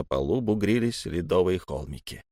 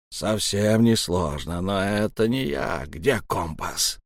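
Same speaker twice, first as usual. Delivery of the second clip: slow menacing question; slower than usual. Acted. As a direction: drag the question out. Elm interrogates slowly.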